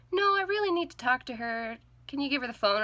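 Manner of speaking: high, loud, pressing plea; urgent. Retold or imitated. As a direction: insist with urgency. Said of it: "it sounded a little bit urgent".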